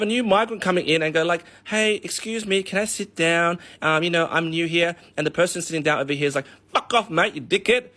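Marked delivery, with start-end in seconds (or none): 1.6-5.0 timid newcomer. Retold or imitated. New migrant asking a local for a seat, timid. 6.7-7.9 high, mock snarling brush-off; rude local. Seated local rebuffing the new migrant, mock aggressive.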